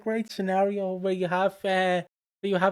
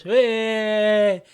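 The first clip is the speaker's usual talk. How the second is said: prank shout; 5 semitones higher, 5 dB louder than usual. Retold or imitated. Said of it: "comes up and goes".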